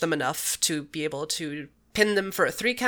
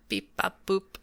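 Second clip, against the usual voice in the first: robot beeps; 5 dB quieter than usual. Pretend. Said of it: "when you went all robotic".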